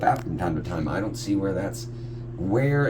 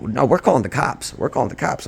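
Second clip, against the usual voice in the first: raised-pitch mock threat; imitated angry threat; 6 semitones higher, 4 dB louder than usual. Retelling buyers threatening police, imitated angry insistence. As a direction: mimic mad buyers cutting in, higher. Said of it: "I'm just mad".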